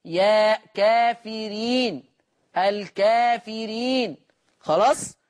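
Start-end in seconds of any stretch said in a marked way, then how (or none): 0.7-4.2 كافرين and والكافرين slow, the a after k leaned toward e; taqlil reading demo. Shown as a demonstration. Teacher demonstrates Warsh's reading of كافرين, slow. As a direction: draw out كافرين slowly with the alif slightly tilted. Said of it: "إذا جاء بعد الراء ياء".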